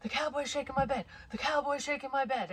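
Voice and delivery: high-pitched mock panic, repeated urgently; panicked child. Young son bursting into mom's room, imitated panic. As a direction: imitate a frightened kid reporting in a high voice. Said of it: "and he's panicked".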